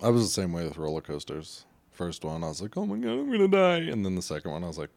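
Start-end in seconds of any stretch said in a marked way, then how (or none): 2.8-3.9 high-pitched mock panic; retold panic. Man retelling his first roller coaster ride, mock panic. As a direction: squeal it like a rider reliving the scare.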